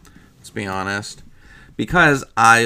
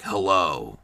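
low, drawn-out greeting; voice changer voice; 4 semitones lower than usual. Acted. Man with voice changer voice saying hello, low. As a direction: answer low like a disguised caller. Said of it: "he has a voice changer voice".

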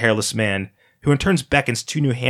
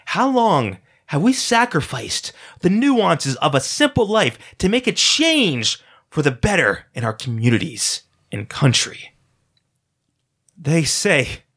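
smooth, rousing showman preaching to a crowd; charismatic orator; 3 semitones higher, slower than usual. Acted. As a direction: sell it like a silver-tongued cult leader. Hairless man addresses crowd.

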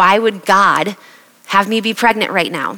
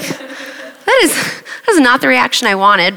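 mock indignant; 5 semitones higher, slower than usual. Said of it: "And I was like".

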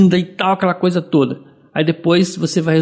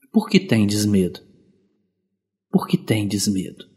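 softly echoing the song; 6 semitones lower, 5 dB quieter than usual. Retold or imitated. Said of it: "canção do Frei Gils".

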